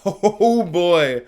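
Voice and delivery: mock excitement. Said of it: "And I'm like".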